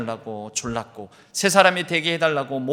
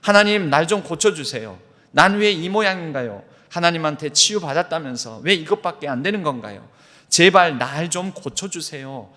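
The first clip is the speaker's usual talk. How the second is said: louder, pleading prayer, mildly tearful; imitating a weeping prayer; 2 semitones higher, 5 dB louder than usual. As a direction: plead with God, half-voiced anguish. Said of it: "바닥을 치며 통곡을 했습니다".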